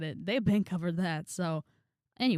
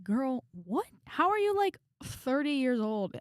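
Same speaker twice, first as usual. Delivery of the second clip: incredulous retort; 6 semitones higher, slower than usual. Retold or imitated. Retelling her reply to the coach, incredulous and pitched way up. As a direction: shoot it up high like you can't believe her. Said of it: "I'm like".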